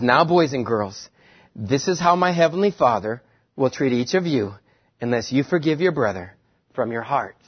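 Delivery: lightly voiced gentle Sunday school teacher; sweet patient sunday school. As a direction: talk to kids, patient and kind. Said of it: "in Jesus' little Sunday school voice".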